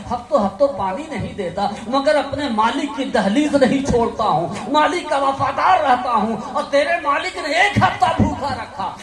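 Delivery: the starving dog, loud and reproachful, lecturing the man; scolding dog. Acted. Dog scolding the ungrateful beggar, loud and reproachful. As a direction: rebuke him hard as the loyal hungry dog. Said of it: "کتا بولنے لگتا ہے".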